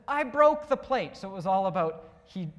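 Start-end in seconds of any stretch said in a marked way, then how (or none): 0.1-1.2 high, loud mock confession; Junior. Pastor voicing cartoon Junior confessing, high and loud. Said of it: "And then Junior says".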